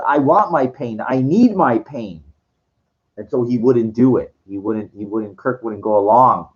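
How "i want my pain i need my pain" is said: higher-pitched, emphatic retold protest; acted insistent demand. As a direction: insist on it, imitating his fervour. Retold Kirk insists on his pain.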